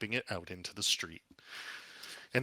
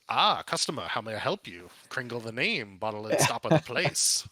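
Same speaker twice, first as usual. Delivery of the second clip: louder, busy gnome merchant; gnome shopkeeper; 7 dB louder than usual. Acted. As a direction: greet the customer like a frantic gnome. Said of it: "And he goes".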